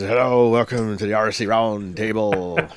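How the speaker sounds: light pirate growl, loud Arr; lightly voiced pirate host. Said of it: "That other weird voice".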